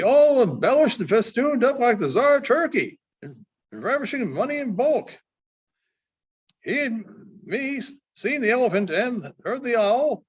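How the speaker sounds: a hint of a bragging mail rider spreading gossip; Baldy the mail rider.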